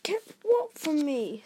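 eager. A narrator's reading. Harry asking what was kept from him, eagerly. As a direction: jump in keen to know. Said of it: "said Harry eagerly".

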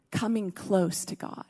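soft hushed echo. Acted. Preacher repeating the call to the congregation, very soft.

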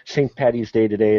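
badly faked Irish accent for Saint Patrick's Day; horrible Irish accent. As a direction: put on a light, hammy Irish lilt. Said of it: "that was a horrible accent".

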